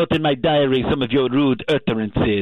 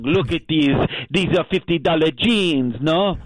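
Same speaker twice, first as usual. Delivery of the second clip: mock bragging; 3 semitones higher than usual. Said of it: "You were always bragging".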